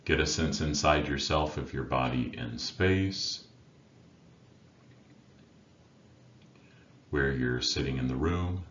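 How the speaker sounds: unhurried meditation guide with long pauses between phrases; guided meditation. Acted. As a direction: guide listeners inward, leaving silence after each instruction. Leads a meditation.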